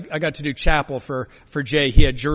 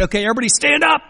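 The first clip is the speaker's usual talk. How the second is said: put-on rallying kids; 9 semitones higher, 5 dB louder, much faster than usual. Retold rallying of preschool children.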